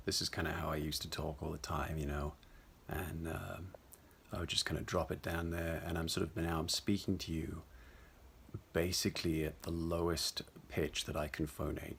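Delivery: dropped into the throat, low and soft; low, mumbly voice. Shown as a demonstration. Voice coach demonstrating their old speaking habit, low mumbly throat voice. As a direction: speak at the bottom of your range, slightly mumbled. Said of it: "a slightly mumbly low pitch".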